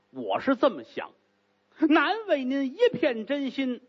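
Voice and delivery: begging, fawning apology; pleading confession. Acted. Gao begs the lady's forgiveness, grovelling. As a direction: grovel and beg her pardon.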